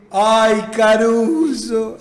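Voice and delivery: lightly imitated coach, drawn-out name; Trigili's drawl. Coach Trigili sighing at his player Caruso, slow drawn-out impression. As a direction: stretch out the name like the old coach. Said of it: "porque hablaba así el".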